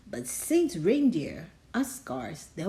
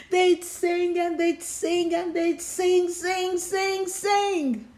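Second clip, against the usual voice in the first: rising singsong; 9 semitones higher than usual. A narrator's reading. Rising repeated sing.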